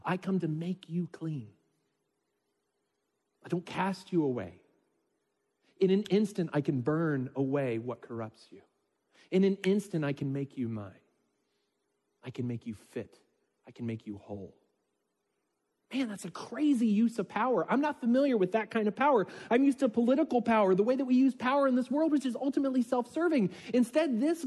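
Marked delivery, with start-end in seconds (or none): 0.1-14.6 gentle voice of God. Acted. God's gentle words voiced. 15.9-23.5 higher, animated marvelling; excited. Real, not acted. Preacher marvelling to congregation, excited and high.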